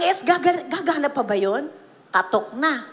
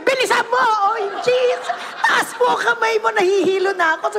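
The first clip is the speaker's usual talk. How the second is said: higher, urgent mock yell; mock shout; 4 semitones higher than usual. Bishop yells at her to sing faster, in a mock yell. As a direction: urge her on, half shouting. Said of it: "Sisigaw si Bishop".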